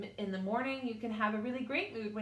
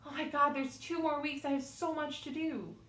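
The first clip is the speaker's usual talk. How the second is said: mock panic; 4 semitones higher than usual. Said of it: "instead of saying".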